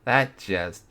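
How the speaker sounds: breathy whispered word. Real, not acted. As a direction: drop to a whisper. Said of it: "that just peaked in the mic".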